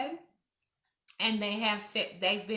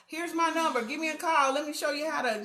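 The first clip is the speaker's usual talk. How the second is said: higher-pitched, encouraging offer; eager helpful offer; 7 semitones higher, 3 dB louder, faster than usual. Acted. Woman offering a mother hair help, eager and helpful.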